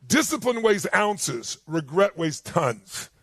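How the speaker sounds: slow weighty maxim; slow emphatic. Retold or imitated. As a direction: deliver each word slowly, with weight. Quoting mentor's maxim.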